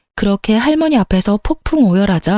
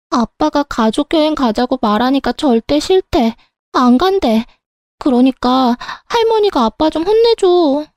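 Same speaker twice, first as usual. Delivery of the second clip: put-on higher, pleading child voice; whiny teenage girl; 6 semitones higher than usual. Granddaughter asks grandma to scold dad, higher and whiny. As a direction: tattle on dad to granny.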